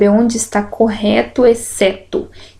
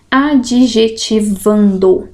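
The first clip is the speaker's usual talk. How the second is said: slow, syllables apart; much slower than usual. Shown as a demonstration. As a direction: sound out adjetivando. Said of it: "divisão silábica".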